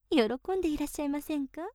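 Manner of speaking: rushed playful question stressing 喜んで; quick teasing question. Acted. Maid teasing her master, quick question. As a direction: toss off 喜んでいらっしゃいませんか quickly. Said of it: "確かに坊ちゃまは喜んでいらっしゃいますよ".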